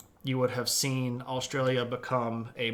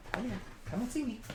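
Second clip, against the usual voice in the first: puppy talk; 8 semitones higher, 5 dB quieter, faster than usual. Real, not acted. Streamer calling the puppy over in squeaky baby talk. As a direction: coax the puppy in a sing-song squeak.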